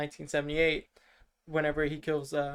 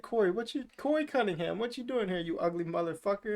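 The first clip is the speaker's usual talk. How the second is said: retold insult; 4 semitones higher than usual. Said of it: "he literally says that to Corey".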